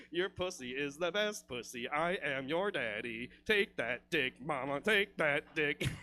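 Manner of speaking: mock monotone, word by word; Adam Sterling. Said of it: "talk in that monotone voice".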